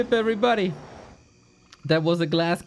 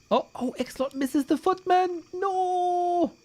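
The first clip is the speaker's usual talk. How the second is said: excited; 12 semitones higher, slower than usual. Real, not acted. Reacting to a missed attack.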